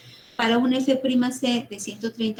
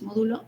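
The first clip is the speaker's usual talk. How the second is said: módulo with the first syllable MÓ clearly stressed. Shown as a demonstration. Teacher to students, spelling out módulo with stress on MÓ. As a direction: lean on MÓ in módulo, then let dulo fall. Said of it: "lleva acento en la O".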